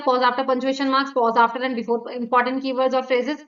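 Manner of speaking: slow, with clear pauses between phrases; measured demo of pausing at punctuation and keywords; teacher spacing out each phrase; deliberate pauses. Shown as a demonstration. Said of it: "जैसे मैं बोलते हुए pauses ले रही हूँ".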